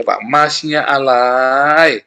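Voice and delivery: drawn-out mocking "Pak, masnya alay" with a long "masnya"; mocking slang. Preacher mocking his own slang habit, slow teasing drawl. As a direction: stretch it slowly like teasing slang. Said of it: "kalau saya suka bilangnya".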